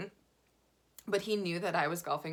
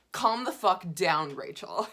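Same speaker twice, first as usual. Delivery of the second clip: tag; 7 dB louder, slower than usual. Retold or imitated. Scolding herself in retold self-talk.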